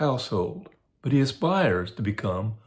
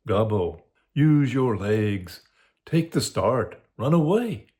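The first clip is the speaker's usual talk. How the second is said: tempting fiend; slower than usual. Acted. The fiend tempts Lancelot to flee, lightly voiced coaxing fiend. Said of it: "The fiend is at mine elbow and tempts me, saying to me".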